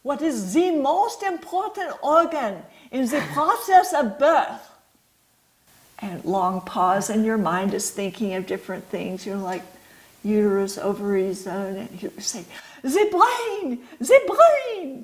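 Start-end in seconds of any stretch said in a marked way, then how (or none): 0.0-4.7 put-on a heavy French accent, pitched up, posing the question to a room of doctors; thick French accent. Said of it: "in his very thick French accent". 12.8-15.0 put-on thick French accent, much higher and laughing. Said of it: "in his very thick French accent".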